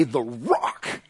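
low, soft trial run; savoring a nickname. Acted. Peter tries on his new nickname, low-key.

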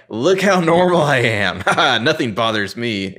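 oversell being relaxed like a nervous star; trying to be chill. Retold or imitated. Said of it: "he's trying to be like, I'm trying really hard to be chill".

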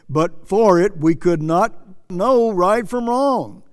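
emphatic, declamatory quote from the pulpit; preacher reading a quotation. Acted.

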